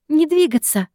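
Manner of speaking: shouted order. A narrator's reading. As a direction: bark the command to freeze an intruder. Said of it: "прорал кто-то мне в лицо".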